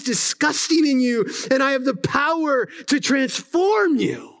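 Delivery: a lightly voiced Jesus, swelling into a preached climax; Jesus speaking in first person. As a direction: proclaim as the risen Christ, rising with conviction.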